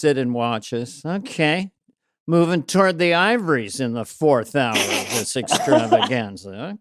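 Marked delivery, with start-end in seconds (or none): 1.1-6.8 sardonic running commentary from the sidelines; put-on comedian's wry patter; Dennis Miller. Castmate watching a long read-through, sardonic commentary impression. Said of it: "That was that Dennis".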